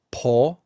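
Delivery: "Paw" with an open vowel and no r; Scottish-accented "Paw", distinct from pour. Shown as a demonstration. Scot showing English listeners "Paw", clearly differentiated. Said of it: "can differentiate more words than an English accent".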